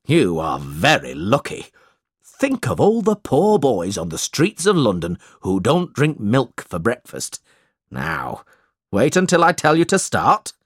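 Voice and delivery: lightly voiced preachy schoolmaster; a hint of a pompous schoolmaster; sanctimonious schoolmaster. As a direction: lecture the pupils on their good luck.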